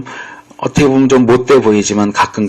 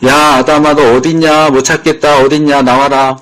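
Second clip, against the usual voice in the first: calling out; 4 semitones higher, 5 dB louder than usual. Retold or imitated. God calling for hiding Adam.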